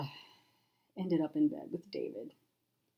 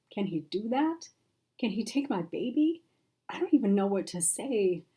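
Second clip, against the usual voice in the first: tearful; 4 semitones higher than usual. Acted. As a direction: voice catching on a sob. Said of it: "A sob caught in her throat".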